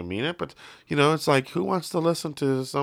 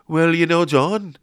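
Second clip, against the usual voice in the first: impression of a singer; 7 semitones higher, slower than usual. The singer speaks to his bandmate in Liverpool accent. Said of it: "He's like".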